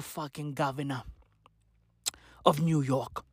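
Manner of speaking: sudden whispered aside. Real, not acted. Ranting about Giuliani's son, whispered aside. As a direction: drop to a whisper as if sharing a secret. Drops to a whisper mid-rant.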